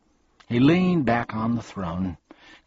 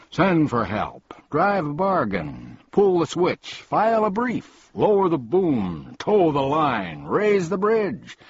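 frantic; 9 semitones higher, 4 dB louder than usual. A narrator's reading. Bug's frantic rising suggestions.

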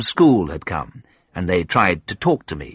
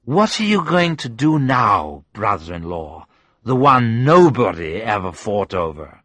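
put-on drunken slur; 3 semitones higher than usual. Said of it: "she said drunkenly".

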